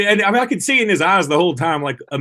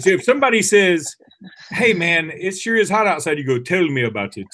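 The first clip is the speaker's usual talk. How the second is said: put-on French accent; 3 semitones higher than usual. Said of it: "I don't even know if that's a good French accent".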